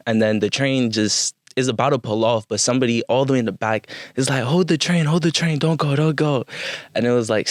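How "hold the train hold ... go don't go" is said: higher-pitched mock urgent plea; urgent calling out. Rider in the back calls to departing train, urgent. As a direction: imitate someone calling to hold the train.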